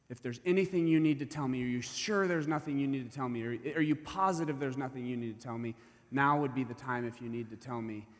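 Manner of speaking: pressing, insistent repeat. Retold or imitated. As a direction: push it like it's pounding in your skull.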